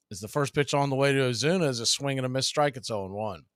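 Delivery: steady play-by-play announcer read; play-by-play call. Acted. Announcer calling the count to the stream. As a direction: call the pitches like a broadcaster.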